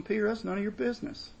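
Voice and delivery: a firm teacher setting Peter straight; Jesus rebuking. Acted. Jesus telling Peter to mind his own business, brisk rebuke. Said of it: "Essentially, Jesus tells him".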